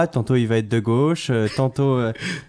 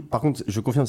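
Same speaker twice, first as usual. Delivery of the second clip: ordinary delivery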